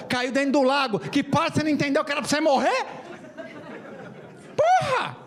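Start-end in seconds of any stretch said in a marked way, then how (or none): 4.6-5.2 sudden high-pitched "Porra!" yelp; squeaky mock-outraged "Porra!"; exasperated outburst. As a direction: burst out in comic exasperation. Comic outburst at punchline.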